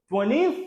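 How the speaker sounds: "twentieth" cut to two syllables, "TWEN-ith"; mispronounced twentieth. Shown as a demonstration. Teacher voices the learner's likely guess, "twentieth" mispronounced as "TWEN-ith". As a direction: say "twentieth" without the middle "ee-eh". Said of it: "Mais c'est pas comme ça, on dit".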